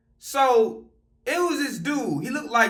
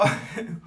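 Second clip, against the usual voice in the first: breathy laugh; 8 semitones lower, 4 dB quieter than usual. Real, not acted. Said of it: "I'm just laughing".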